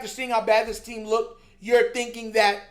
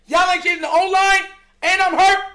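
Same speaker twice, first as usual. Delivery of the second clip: louder, higher mock of Lamar walking out; mock quarterback quitting; 4 semitones higher, 4 dB louder than usual. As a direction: play the fed-up player saying he's done. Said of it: "But I bet you'd be pissed if he said".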